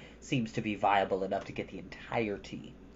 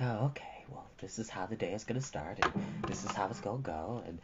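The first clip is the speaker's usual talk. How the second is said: groggy reply; 5 semitones lower, 10 dB quieter than usual. Retold or imitated. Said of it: "I'm like".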